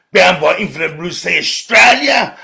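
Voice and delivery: bound by infinite blue sea Australia, shouted; shouted repeat. Real, not acted. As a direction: call it out proudly. Repeats the phrase, now shouting.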